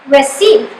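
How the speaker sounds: "receive" with "ceive" stressed over "re"; stress on second syllable. Shown as a demonstration. Teacher demonstrates the accented syllable, "receive" stressed on "ceive". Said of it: "I have pronounced the accented syllable".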